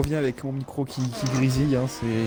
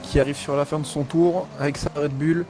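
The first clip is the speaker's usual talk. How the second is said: motorsport commentator; 3 semitones higher than usual. Acted. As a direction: lively race play-by-play. Live race play-by-play.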